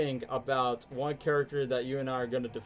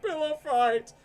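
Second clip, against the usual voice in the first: Eggman voice; 13 semitones higher, 4 dB louder, slower than usual. Retold or imitated.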